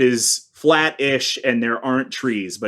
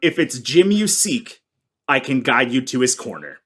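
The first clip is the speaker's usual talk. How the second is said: parable-speaking mystic. Acted. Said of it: "why do you speak in parables".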